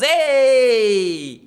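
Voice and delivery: loud startled shout of Hey; whole table yells at once; family shouting. Retold or imitated. Italian family yelling at the guest. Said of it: "The whole family goes".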